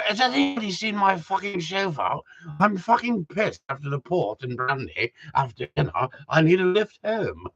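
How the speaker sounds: tipsy aristocrat's posh English, hammed up; posh gentry accent. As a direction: play a posh toff after the port and brandy. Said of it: "you just start talking like them after a while".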